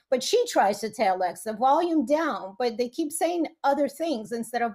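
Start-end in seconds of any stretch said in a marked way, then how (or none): 1.5-2.5 slow, lightly imitated Russian accent; soft Russian accent. Mom trying to tell Alexa, in a soft Russian accent. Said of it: "she's got a softer Russian accent".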